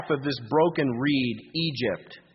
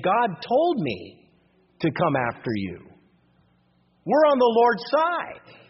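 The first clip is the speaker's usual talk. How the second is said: boastful Assyrian king; 7 semitones higher, slower than usual. Retold or imitated. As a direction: puff up like a conquering king taunting the city. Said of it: "So the Assyrian king is saying".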